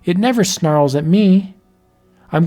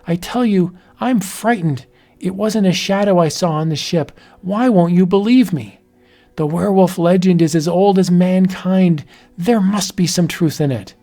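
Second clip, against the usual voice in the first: frightened pleading; 4 semitones higher than usual. Acted. Wife pleads with disbelieving husband.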